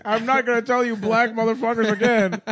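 high, loud mock cop; police voice. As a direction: yell it like a bossy cop. Joining the mock police bit.

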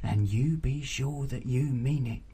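lightly voiced stern aunt, loud then dropping; insistent auntie. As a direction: press the girl for a promise.

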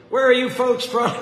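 high, loud friendly southern greeting; friendly drawl. Retold or imitated. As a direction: boom a hearty hello at strangers. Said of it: "he says in a friendly drawl".

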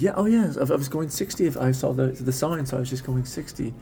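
half-hearted imitation British accent; weak British accent, starting high. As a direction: attempt a British driver, faintly. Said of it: "It's a weak British accent".

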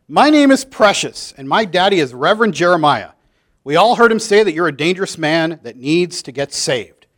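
put-on a child tattling proudly to the teacher; little girl Precious. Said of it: "the girl raised her hand".

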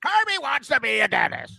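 Christmas movie character. Retold or imitated. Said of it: "the guy from the Christmas movie".

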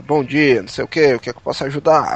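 low, brusque call-centre voice, fast at the end; rude attendant. Retold or imitated. Impatient agent answering a customer's call, low and brusque. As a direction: play a curt, bored phone agent. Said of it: "já atende um cara mais ignorante".

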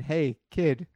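loud, slow call; calling out advice. Retold or imitated. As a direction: call it out to the kid. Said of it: "in the next panel saying".

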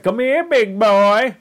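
high, slow come-on; mock seductive stranger. Dream creature luring Morty in, slow high mock seduction. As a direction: draw it out like a hammed-up seducer.

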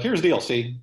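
lightly mimicked fast-talking Texarkana Texan; a hint of quick Texan patter; Ross Perot. Describing types of Texan, mock Texarkana twang. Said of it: "you got your Ross Perot".

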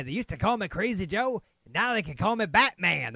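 lightly voiced tough principal; Morgan Freeman quote. Film buff quoting the principal, lightly voiced. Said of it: "That would be Morgan Freeman in Lean on Me".

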